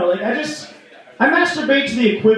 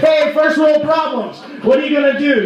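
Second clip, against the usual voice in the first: smug rich jerk; 8 semitones higher than usual. Retold or imitated. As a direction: imitate a callous friend gloating at the less fortunate. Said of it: "he's an asshole".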